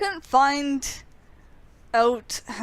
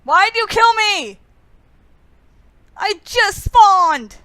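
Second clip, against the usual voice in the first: indignant outcry; 7 semitones higher, 10 dB louder, slower than usual. Real, not acted. Killed right after spawning.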